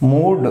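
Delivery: మూడ్ with the oo drawn out; long vowel. Shown as a demonstration. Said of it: "ఇది long pronunciation". (మూడ్ లో పొడవైన ఊ శబ్దం)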